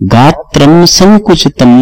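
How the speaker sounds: slow, drawn-out verse line; verse quote. Acted. Preacher repeats the verse line to explain it, slowly. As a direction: savor the Sanskrit phrase slowly.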